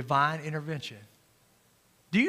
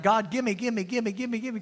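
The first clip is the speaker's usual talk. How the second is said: greedy whining prayer; 4 semitones higher than usual. Retold or imitated. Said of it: "we're like".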